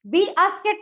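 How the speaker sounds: बी आस्केट with the letter name first; wrong split. Shown as a demonstration. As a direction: say "बी आस्केट" as two parts. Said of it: "नहीं बोलते हम". ("बी आस्केट" दो हिस्सों में)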